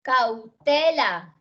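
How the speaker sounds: "Cautela" very slow, force on "te"; stress shown. Shown as a demonstration. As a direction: stretch "Cautela" syllable by syllable, leaning on "te". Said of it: "¿Dónde tiene el acento cautela?". («Cautela» muy lento, con la fuerza en «te»)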